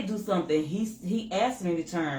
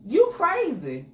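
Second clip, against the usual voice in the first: higher, slow, pointed retort; still angry; 10 semitones higher, 4 dB louder, slower than usual. Retold or imitated. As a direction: drag it out, still annoyed. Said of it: "'Cause my anger was still there".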